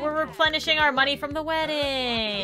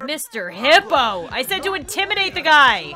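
exasperated scolding; 5 dB louder than usual. Real, not acted. Streamer scolding the hippo bouncer, exasperated. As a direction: tell him off, half laughing.

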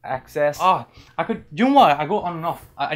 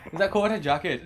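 higher, lightly attempted Welsh lilt; Welsh accent; 5 semitones higher than usual. Shown as a demonstration. Repeating their one known phrase, attempted Welsh accent. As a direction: have a go at Welsh. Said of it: "could say in the Welsh accent".

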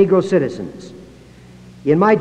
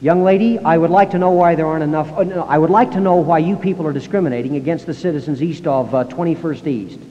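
indignant caller. Retold or imitated. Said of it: "He calls the Salt Lake City Board".

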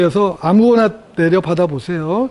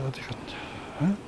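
whispered mutter; 4 semitones lower, 18 dB quieter, slower than usual. Real, not acted. Searching phone, muttering to self.

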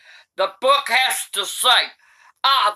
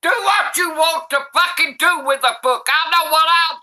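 irritated shout; 5 semitones higher than usual. Real, not acted. Granny snapping at grandchild.

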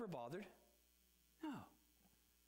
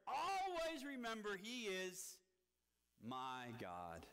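"always" drawn out and stressed, slow; much slower than usual. Shown as a demonstration. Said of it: "that's a wonderful word".

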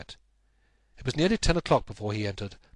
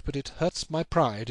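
slow brooding; 4 semitones higher than usual. Acted. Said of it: "It is a petty feeling".

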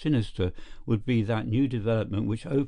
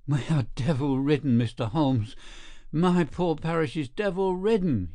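a frantic vicar, rising higher as he pleads; excited cry; 4 semitones higher than usual. Acted. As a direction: cry it out to Mister Holmes, climbing in pitch. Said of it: "he cried".

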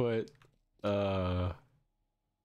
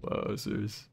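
Mario voice; slower than usual. Acted. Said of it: "Looks at Mario Bros".

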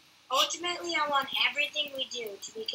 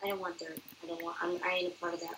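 low grumpy voice; 9 semitones lower, 9 dB quieter, much faster than usual. Acted. Refusing dirt, grumpy bit.

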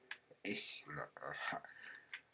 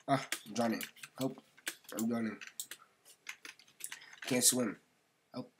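mock drowning; 4 semitones higher than usual. Pretend drowning in the game.

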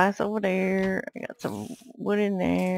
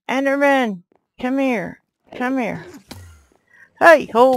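higher, louder calling out to the mob; excited calling; 6 semitones higher, 8 dB louder than usual. Real, not acted. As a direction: call the enderman over eagerly. Chasing an enderman.

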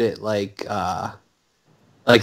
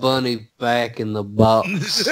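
mock Cage delivery; slower than usual. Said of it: "he can't even do Southern".

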